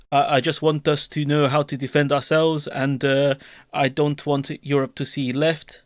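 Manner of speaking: put-on lightly French-accented Wenger voice, measured and earnest; just a hint of a French accent, unhurried; Arsene Wenger impression. Streamer reading Macron's speech aloud as Wenger, light French accent. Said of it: "I'm gonna do my Wenger impression now".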